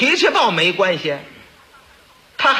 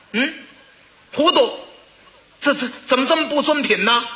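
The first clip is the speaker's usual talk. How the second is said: prince scolding; 3 semitones higher than usual. Acted. Ninth prince scolds loudly in story.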